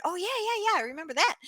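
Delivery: fake remembering. Faking memory of buyer.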